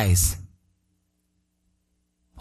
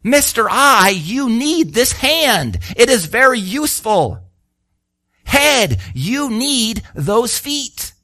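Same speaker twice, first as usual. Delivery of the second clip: slow, earnest plea; imploring; 4 semitones higher, slower than usual. Retold or imitated. Paul pleading with the Corinthians, slow and earnest. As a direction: beg them to see they need each other. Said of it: "Paul is imploring these people".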